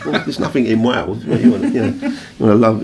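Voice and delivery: teasing through laughter, pitch jumping; laughing mockery. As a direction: laugh while mocking the idea. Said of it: "we just thought that was hilarious".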